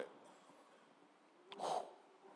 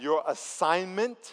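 drawn-out prayer line; 3 semitones higher, much slower than usual. Shown as a demonstration. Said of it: "say this out loud".

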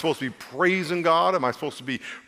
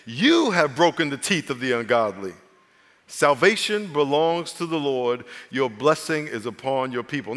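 solemn scripture reading; 3 semitones lower than usual. Acted. Reads the psalm aloud.

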